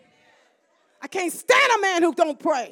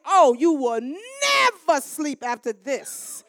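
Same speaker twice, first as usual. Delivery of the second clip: fierce shouted prayer; 3 semitones higher, 4 dB louder than usual. Retold or imitated. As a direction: call it down on him in prayer. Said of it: "You should have heard my prayer".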